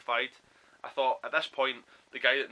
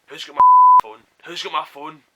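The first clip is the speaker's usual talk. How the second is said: mild mock yell, pitched up on the repeat; retold screaming demand; 5 semitones higher, 19 dB louder than usual. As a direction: imitate a screaming demand at half force. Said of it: "a girl standing screaming at us".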